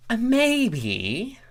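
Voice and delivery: a hint of a smug bureaucrat; lightly voiced officious changeling. A narrator's reading. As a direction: play him self-important and quick. Thorax unsure.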